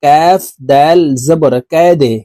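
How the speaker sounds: কাদে with the দাল pushed down with a jolt; jolting echo on the দাল in কাদে; qalqalah on dal. Shown as a demonstration. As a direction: bounce the দাল of কাদে hard. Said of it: "ধাক্কা দিয়ে উচ্চারণ করব".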